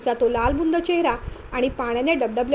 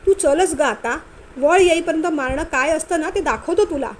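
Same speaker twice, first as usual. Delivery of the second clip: angry scolding; 3 semitones higher, 4 dB louder than usual. Acted. Husband scolds wife, angry.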